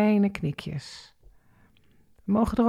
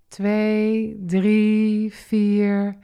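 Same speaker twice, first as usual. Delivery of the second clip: inhale count; 2 semitones higher, much slower than usual. Shown as a demonstration. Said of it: "En adem maar weer in".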